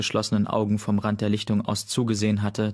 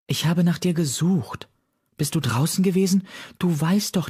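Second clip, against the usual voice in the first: higher, worried motherly voice; 8 semitones higher than usual. A narrator's reading. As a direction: scold the kit out of worry. Worried mother scolds kit. (Mondblüte besorgt und vorwurfsvoll, mit höherer Stimme)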